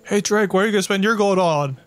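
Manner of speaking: quoted questioner. Acted. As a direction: playfully voice someone asking. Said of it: "I shot back".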